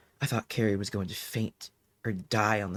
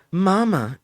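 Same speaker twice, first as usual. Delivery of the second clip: put-on a small girl's cry, much higher and louder; child's scream; 9 semitones higher, 9 dB louder than usual. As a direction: scream for mama in terror. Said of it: "Carrie screamed out".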